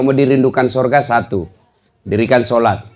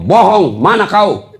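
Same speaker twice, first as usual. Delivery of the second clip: istri menuduh; 5 semitones higher, 4 dB louder, slower than usual. Acted. Istri menuduh suami berbohong.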